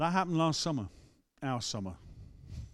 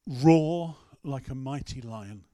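commanding exhortation; 4 dB louder, slower than usual. Retold or imitated. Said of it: "and he says to me".

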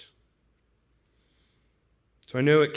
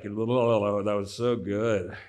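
awed; 5 semitones lower, much slower than usual. Retold or imitated. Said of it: "And you'd be like".

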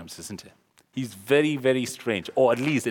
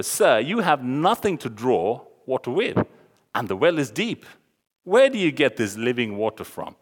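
lightly teasing challenge; slightly mocking; 3 dB louder than usual. Samaritan woman asking Jesus where his living water comes from, slightly mocking. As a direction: question him with a touch of mockery. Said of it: "she's trying to mock".

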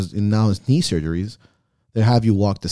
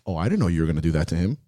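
sassy mom; 5 semitones lower, faster than usual. Retold or imitated. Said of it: "she goes".

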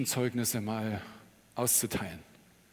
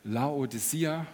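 slow careful pronunciation; much slower than usual. Shown as a demonstration. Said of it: "kannst du das auch mal sagen?".

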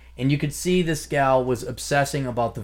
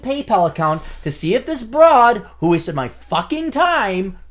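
strained, worn-out voice; voice giving out; 10 semitones higher, 8 dB louder than usual. Real, not acted. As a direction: push through a failing voice. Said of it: "Losing my goddamn voice".

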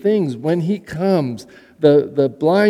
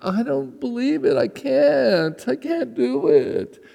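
put-on Valley Girl self-doubt; 8 semitones higher, slower than usual. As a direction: sound like you've already given up. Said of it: "which means".

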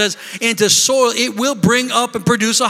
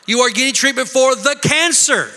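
THE set apart before cancer; stress on THE; 3 semitones higher than usual. Shown as a demonstration. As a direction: lean firmly on THE, disowning the cancer. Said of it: "you don't have to say".

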